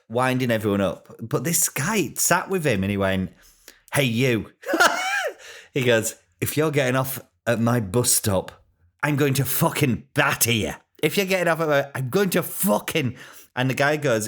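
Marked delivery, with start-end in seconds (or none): 3.9-4.5 lightly voiced Irish bloke; Irish accent impression. Retelling an Irish passenger confronting a troublemaker, Irish accent. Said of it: "about to do an impression of him". 6.4-13.2 mock threat in an Irish accent, rising in pitch; Irish accent impression. Retelling an Irish passenger threatening a troublemaker, mock Irish accent. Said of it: "about to do an impression of him".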